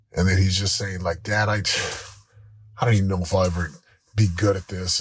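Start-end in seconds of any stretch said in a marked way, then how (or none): 1.2-5.0 put-on halting, lower retelling of a disheartened boy; mildly defeated, with heavy pauses; imitating discouraged son. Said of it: "he was just discouraged".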